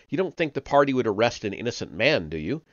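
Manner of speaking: a hint of a nervous, eager-to-please chap; anxious Parsons. Parsons begs Winston for reassurance in the cell, lightly voiced and anxious.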